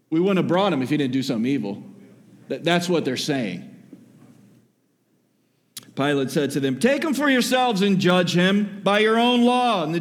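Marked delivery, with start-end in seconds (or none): 0.1-1.8 snarky remark. Retold or imitated. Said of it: "this was a snarky remark". 6.8-9.8 lightly voiced Roman governor, dismissive; Pilate voiced higher. Pilate telling the crowd to judge him themselves, lightly voiced.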